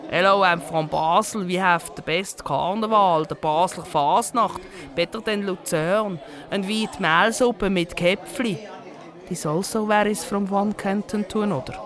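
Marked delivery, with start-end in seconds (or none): 0.1-8.7 put-on Basel accent. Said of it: "you can tell where someone comes from just from their accent".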